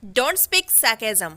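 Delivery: extremely slow, word by word; slow dictation. Shown as a demonstration. Teacher modelling the phrase, extremely slow. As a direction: stretch every word for learners. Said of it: "अनाप शनाप मत बोला करो".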